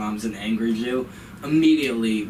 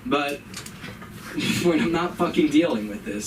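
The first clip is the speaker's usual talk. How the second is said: flippant mom; 5 semitones higher than usual. Retold or imitated. Mom voiced dismissing son.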